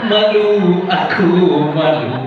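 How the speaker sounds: laughing through the shame of it; embarrassed laughing. Real, not acted. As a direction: giggle out the words, sheepish. Embarrassed at his mistake.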